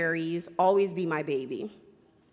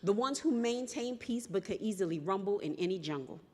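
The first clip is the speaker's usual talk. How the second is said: spoken word poem; 2 semitones lower, 4 dB quieter than usual. Acted. Poet performing her story to the slam crowd, measured and defiant.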